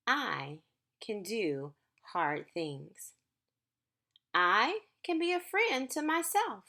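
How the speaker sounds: gentle, measured picture-book reading; reading to children. Acted. Teacher reading a book to her class, gentle storytime voice. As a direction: read each line slowly to the class.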